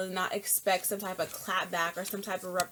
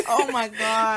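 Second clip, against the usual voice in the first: laughing outburst; 2 semitones higher, 9 dB louder than usual. Real, not acted. Co-host reacting to the company's threat to sue, laughing loudly. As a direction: crack up loudly while talking.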